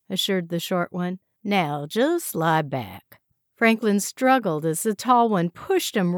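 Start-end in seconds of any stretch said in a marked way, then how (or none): 1.4-3.2 very slow, mock reassurance; calm them before the pain; falsely soothing. Captor calmly restrains prisoner.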